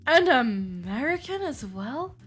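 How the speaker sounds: put-on indignant complaint in an amateur British accent; butchered British accent. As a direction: play the affronted Brit, accent badly faked. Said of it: "I can't do a British accent".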